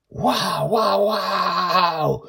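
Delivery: put-on high, eager girl's voice; a young girl thrilled at what she sees; excited child Joy. Joy spots the cloud city, high and thrilled.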